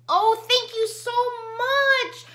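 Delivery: fighting back tears; choking up. Real, not acted. Thanking subscriber Renee for gifts, voice breaking. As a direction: voice cracking on much.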